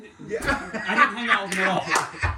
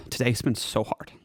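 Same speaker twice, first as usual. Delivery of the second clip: a hint of Valley Girl, whiny and dramatic; Valley Girl accent. Valley Girl accent delivering podcast picks to friends. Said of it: "deliver your picks in a Valley Girl accent".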